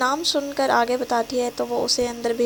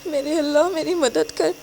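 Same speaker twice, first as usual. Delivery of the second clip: higher, tearful prayer; crying to God; 4 semitones higher than usual. Acted. Abandoned girl praying for help, crying. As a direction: pray through tears. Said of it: "وہ روتے ہوئے دل میں سوچتی ہے".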